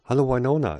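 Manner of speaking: high, loud, happy greeting; joyful. A narrator's reading. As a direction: call hello back with delight. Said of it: "entgegnete Tarsoin freudig".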